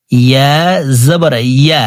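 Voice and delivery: careful ইয়া with a clear y from the middle of the tongue. Shown as a demonstration. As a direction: teach ইয়া with a distinct y glide, unhurried. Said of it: "জিহ্বার মধ্যখান থেকে পড়তে হবে". (ইয়া জিহ্বার মধ্যখান থেকে)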